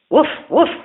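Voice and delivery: high, loud excited bark; barking dog. A narrator's reading. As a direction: bark it out, tongue lolling. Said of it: "barked the dog".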